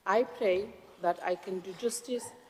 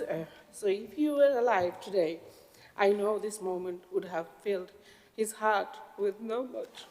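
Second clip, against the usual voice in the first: real tears catching in the throat, slowing down; choked up, fighting to get the words out; voice breaking. Real, not acted. New mayor remembering her late father, voice breaking. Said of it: "I'm very emotional when it comes to my father".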